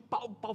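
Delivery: two short mock bangs; imitated gunshots. Storyteller retelling the shootout, imitated gunshots. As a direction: voice the shots in passing. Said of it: "E os tiros".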